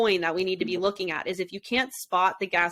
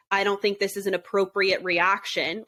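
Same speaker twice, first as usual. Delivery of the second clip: lecturing. Retold or imitated. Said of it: "he starts talking to her like he's lecturing her".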